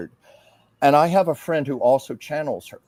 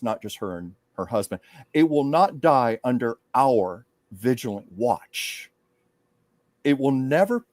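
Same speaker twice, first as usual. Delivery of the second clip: channeled public speech. Acted. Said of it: "she went into public mode".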